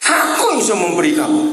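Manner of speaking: God pleading. Acted. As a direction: call out as God begging them to share. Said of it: "Maka itu dia minta".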